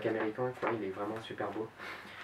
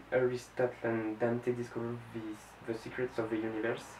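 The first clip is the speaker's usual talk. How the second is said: careful English title; 4 dB quieter than usual. Shown as a demonstration. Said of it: "je risque d'écorcher un peu le nom".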